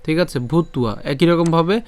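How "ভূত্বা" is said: "ভূতুয়া" with the v sounded as ua; careful pronunciation. Shown as a demonstration. Teacher explains the v sound, careful "ভূতুয়া". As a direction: say "ভূতুয়া" as bhut-ua. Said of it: "বয়ের উচ্চারণটা উয়া".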